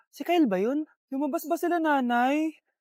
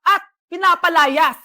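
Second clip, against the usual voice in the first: loud accusing list; 6 dB louder than usual. Acted. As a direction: read each charge out like an accusation. Teacher reads the abuse list aloud.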